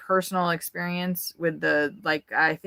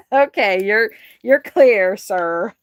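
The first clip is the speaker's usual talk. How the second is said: calling out; 3 semitones higher, 9 dB louder, slower than usual. Real, not acted. Telling naked man coast clear.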